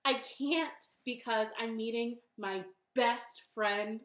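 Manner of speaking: loud, high, hesitant opening; nervous bunny. Acted. Bunny declines snake's supper, startled and hesitant. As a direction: stall brightly, then trail to an excuse. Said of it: "And the bunny said".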